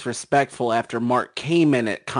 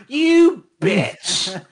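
laughing; 7 semitones higher than usual. Real, not acted. Laughing insult at a friend.

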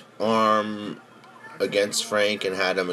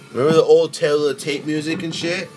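excited; 8 semitones higher, 6 dB louder, faster than usual. Real, not acted. Hyped remembering old intro.

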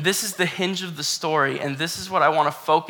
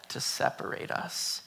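hushed vow end; 3 semitones lower, 12 dB quieter than usual. Acted. End of Ruth's vow, read softly.

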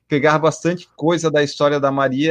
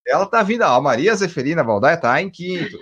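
playful race caller voice; race commentator. Pretend. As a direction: call it like a race announcer. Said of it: "Se eu fosse narrador da corrida". (narrador de corrida empolgado)

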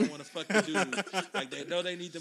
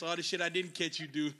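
loud, stern dad voice; stern father; 11 dB louder than usual. Retold or imitated. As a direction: lay down the law.

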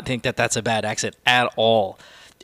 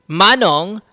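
imitating a spoiled child ordering the driver; loud, higher, mock-bossy kid giving orders; bossy rich kid; 4 semitones higher, 6 dB louder than usual. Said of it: "that fucking kid".

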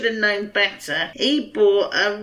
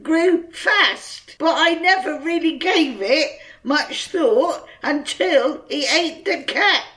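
put-on South African accent; 4 semitones higher than usual. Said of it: "so this is his quote".

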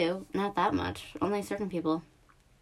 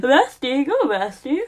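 cheering; 5 semitones higher, 6 dB louder, slower than usual. Pretend. Cheering friend on.

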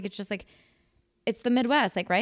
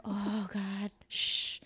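softer, weary groan into a shush; understated pre-coffee dread; 7 dB quieter, much slower than usual. Retold or imitated. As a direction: shrink from the perkiness and hush it. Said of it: "I'm a level three".

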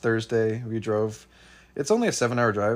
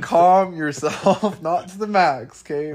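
loud protest; 6 semitones higher, 6 dB louder, slower than usual. Real, not acted. Laughing protest.

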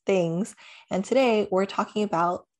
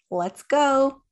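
higher, louder rallying cry; let's-go hype, pitched up high; excited cheer; 7 semitones higher, 7 dB louder, much slower than usual. Real, not acted. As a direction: kick off the show with a whoop. Hyped cheer opening the show.

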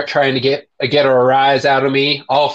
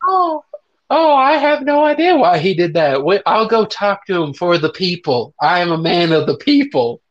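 mock innocent. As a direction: play the wide-eyed innocent. Mock-innocent politician excuse.

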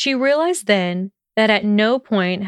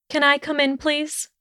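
timid plea; 7 semitones higher, 3 dB quieter than usual. Acted. Hesitant plea at his door.

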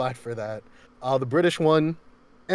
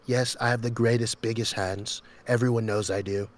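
over-articulated boastful politician impression; Donald Trump. Mimicking for laughing friends, over-articulated boasting. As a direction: brag with exaggerated lip work. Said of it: "over articulating his lips".

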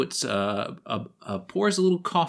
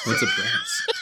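puzzled high voice; slower than usual. Acted. GM barmaid puzzled.

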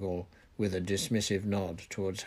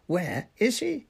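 high-pitched yelled demand, more stretched out; drawn-out yell; 10 semitones higher, 4 dB louder, slower than usual. A narrator's reading. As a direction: yell each word, rising at the end. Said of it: "yelled Fudge".

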